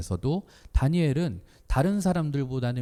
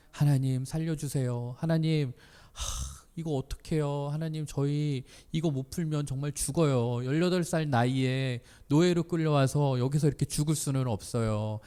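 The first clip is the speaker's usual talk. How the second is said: earnest pleading; 3 semitones higher than usual. Acted. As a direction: plead with God for your life, hushed and urgent. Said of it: "이렇게 간절히". (간절히 애원하듯 기도하는 연기)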